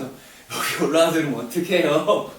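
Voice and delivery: slow, drawn-out friendly complaint with a smile; laughing good-naturedly. Retold or imitated. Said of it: "웃으면서".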